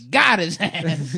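put-on slow, drawn-out old lady; grandma voice. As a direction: stretch it like a cackling grandma. Repeating the grandma line.

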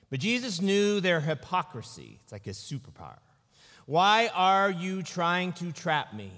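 slow, measured reading of the gospel; a preacher reading scripture to the congregation. Acted. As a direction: read the passage with weight, slowing on key lines. Reads gospel passage aloud.

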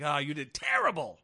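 loud, exaggerated verdict; hammed-up teacher's disapproval; mock scolding. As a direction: blurt it with mock horror. Voicing a harsh grading sticker.

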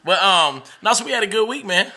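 talking while chewing gum; words round a wad of gum. Real, not acted. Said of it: "chewing gum on a microphone".

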